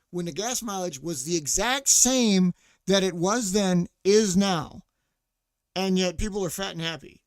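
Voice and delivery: loud ranting; nearly shouting it out. Real, not acted. Ranting about gas mileage.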